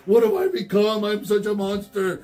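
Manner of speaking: hammed-up toy robot in despair; skit Megatron. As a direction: play the monster's tragic war speech. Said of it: "we were enacting the Robot Chicken skit".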